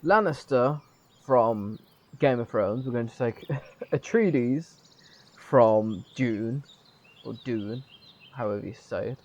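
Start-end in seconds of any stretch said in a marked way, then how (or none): 0.0-6.6 louder, amused mock decision-making; mock game developers. Streamer mimicking the game's writers borrowing famous names, mock-pleased. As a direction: imitate them picking names, loud and chuckling. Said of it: "Have they just gone".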